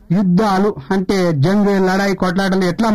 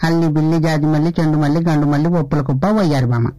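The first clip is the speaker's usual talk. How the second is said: coy, shy candidate asking for votes; candidate character. Acted. (సిగ్గుపడే అభ్యర్థి పాత్ర, మెల్లగా)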